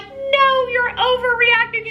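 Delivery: high, loud, singsong brush-off; mock dismissive mom. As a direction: wave it away in a falsetto, playing innocent. Mom brushing off scared daughter.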